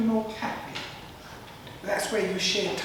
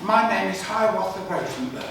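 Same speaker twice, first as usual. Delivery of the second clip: punchline; 5 dB louder than usual. Acted. Punchline delivered.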